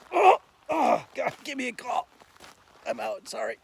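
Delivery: just swallowed a bug. Real, not acted. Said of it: "these things are driving me crazy".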